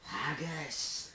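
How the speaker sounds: one-word Scottish accent. Shown as a demonstration. Answering a friend's request for accents, Scottish accent. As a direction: give a quick mock Scottish accent. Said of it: "Scottish accent?".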